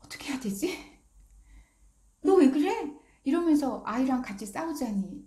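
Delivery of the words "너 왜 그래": a sharp, loud, high scold; scolding a child. Retold or imitated. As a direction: snap at the kid, loud and high.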